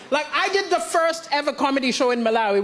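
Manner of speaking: ordinary delivery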